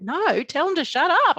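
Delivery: loud, high retold outburst; reliving a panicked demand; frantic insistence. Retold frantic argument with husband.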